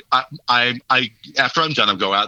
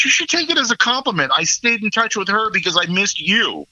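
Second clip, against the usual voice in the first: retold defensive retort; 9 semitones higher than usual. Pleading retort to mother, retold.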